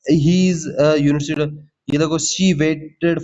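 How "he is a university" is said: slow, careful "a university"; slow correct-form demo. Shown as a demonstration. Teacher showing students the corrected sentence, slowly. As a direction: lay out "a university" word by word. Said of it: "यूनिवर्सिटी आ रहा है, वाई का sound".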